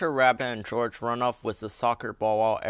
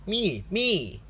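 1 eager shout; 9 semitones higher than usual. A narrator's reading. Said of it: "shouts Pedro Pony".

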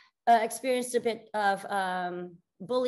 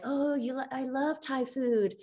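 quoting her friend; 6 semitones higher than usual. Retold or imitated. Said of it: "she was like".

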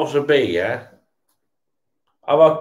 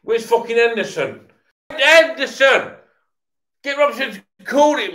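high, strained yells at the screen; exasperated shouting; 9 semitones higher than usual. Real, not acted. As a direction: demand the call, frustrated. Shouting at players on TV.

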